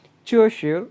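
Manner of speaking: Chinese sentence read very slowly, word by word. Shown as a demonstration. Teacher reading the Chinese text slowly aloud. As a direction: spell out each syllable of the text. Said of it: "text को pronounce करते हैं".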